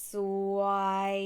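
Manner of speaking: ส ว ย on a straight mid pitch; flat tone demo. Shown as a demonstration. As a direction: hold it level. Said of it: "with your mid pitch straight".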